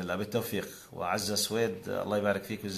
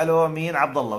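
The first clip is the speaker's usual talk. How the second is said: voicing an anonymous caller, higher and louder; mock phone call; 6 semitones higher, 7 dB louder than usual. Host acting out a caller who won't give his name. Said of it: "ببساطة".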